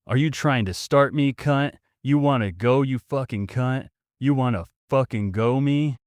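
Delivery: mock aggressive bogan. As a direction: pick a fight like a drunk bogan. Bogan threatens the hero.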